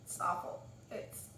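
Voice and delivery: P=A; whispered disgust. Retold or imitated. Disgust at the mice.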